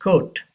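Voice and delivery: COAT with a long "oh"; British pronunciation. Shown as a demonstration. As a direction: model "coat" as KOHT. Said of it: "लेकिन Britishers coat". (coat को "कोट" बोलें)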